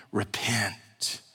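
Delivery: hushed, breathy whisper of the call; whispered repent. Retold or imitated. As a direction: whisper the word as a solemn warning. Quoting John the Baptist's call.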